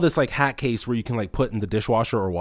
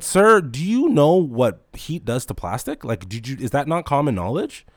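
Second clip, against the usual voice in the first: incredulous; 2 semitones higher than usual. Retold or imitated. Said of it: "I said".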